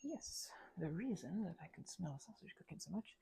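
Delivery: soft unvoiced ASMR whisper; hushed aside to the listener. Real, not acted. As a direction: breathe the words, no voice.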